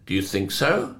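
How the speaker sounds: soft, understated question, a hint of the Queen; gently doubt his plan, barely above a murmur; quiet royal doubt. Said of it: "the Queen is reportedly to have said".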